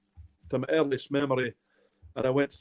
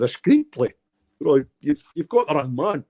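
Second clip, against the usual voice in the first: retold disbelief, raised and louder; incredulous protest; 5 dB louder than usual. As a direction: balk at it in mock astonishment. Retold disbelief at a film request.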